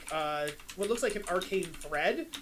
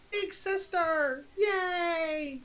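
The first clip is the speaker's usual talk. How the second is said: high, slow, delighted little-brother cheer; gleeful child; 9 semitones higher, much slower than usual. Acted. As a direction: squeal it out with childlike joy. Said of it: "He's a hundred percent like".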